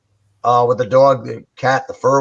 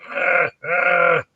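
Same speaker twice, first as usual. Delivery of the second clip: imitated dog growl; 3 semitones higher than usual. Retelling the audio recording, the dog's growl lightly imitated. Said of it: "you hear the dog growling".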